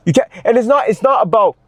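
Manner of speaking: heated shout. Real, not acted. Heated rant climax.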